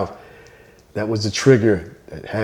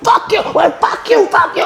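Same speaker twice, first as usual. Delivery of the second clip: shouted, much higher dare to fight; mock shouting let's go; fired-up challenge. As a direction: bark it like squaring up. Cursing back and forth.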